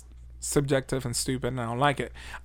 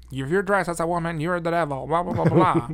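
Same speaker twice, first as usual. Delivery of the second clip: put-on old-time news anchor; 3 semitones higher than usual. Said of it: "sounded like a news anchor from that time".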